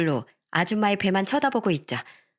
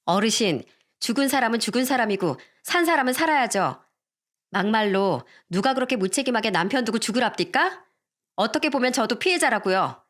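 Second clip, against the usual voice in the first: put-on cheeky, defiant young woman; talking back pertly; 2 semitones higher than usual. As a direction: snap back point by point at the elder. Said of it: "외할머니께 따박따박 대들기 시작했어요". (외할머니께 따박따박 대드는 아줌마)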